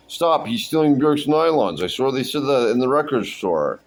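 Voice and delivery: high-pitched mock alarm; acted accusation. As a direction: call out a hammed-up accusation. Acting out store staff's accusation.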